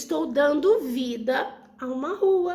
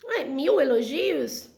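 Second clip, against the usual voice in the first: slow, puzzled "Ué, mil elogios?"; doubtful question; slower than usual. Shown as a demonstration. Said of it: "Não, não foram mil". (pergunta incrédula e lenta)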